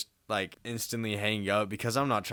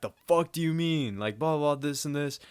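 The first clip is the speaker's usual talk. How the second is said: imitated freaking-out dad; 5 semitones higher than usual. Dad reacting by text to son not coming, mock freak-out. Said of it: "He's just, like, freaking out over text".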